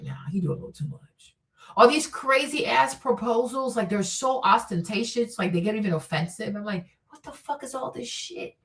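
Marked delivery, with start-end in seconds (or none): 0.0-1.4 quiet unvoiced sceptical whisper; hushed whisper to yourself about the crying groom; whispered aside. Whispered inner judgement. 7.1-8.6 muttered disbelief. Retold or imitated. Inner reaction to proposals.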